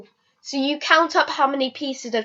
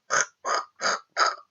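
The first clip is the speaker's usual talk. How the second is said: drowning-rat noise; 7 dB quieter than usual. Retold or imitated. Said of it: "I sounded like a drowning rat".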